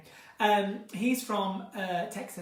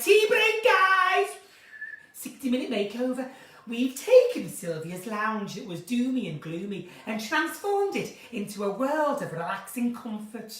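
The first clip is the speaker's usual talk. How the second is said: Liverpool accent. Shown as a demonstration. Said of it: "You gotta talk a bit like that".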